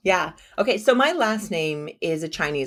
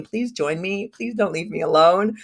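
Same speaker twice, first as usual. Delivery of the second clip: playful begging that builds higher and louder; pleading; 5 semitones higher, 5 dB louder than usual. Retold or imitated. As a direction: beg them, mock-desperate, rising to the end. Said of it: "emailing my list saying".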